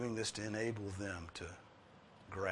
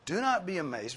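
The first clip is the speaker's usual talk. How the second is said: loud, raised proclamation; angel's words; 6 semitones higher, 6 dB louder than usual. Retold or imitated. Preacher voicing the angel to the women, raised and loud. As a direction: announce it like a herald. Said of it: "Look again at what this angel says".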